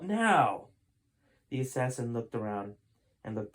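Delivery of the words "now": loud barked order; commanding shout. Acted. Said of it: "spat Sheldon".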